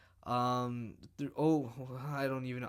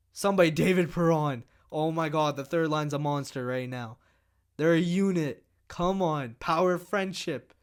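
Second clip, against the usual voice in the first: loud cheering; 5 dB louder than usual. Real, not acted. Cheering on his line.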